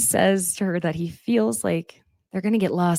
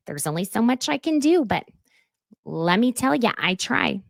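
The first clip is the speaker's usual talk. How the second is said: sarcastic; 5 semitones higher than usual. Retold or imitated. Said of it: "sarcasm from both of them".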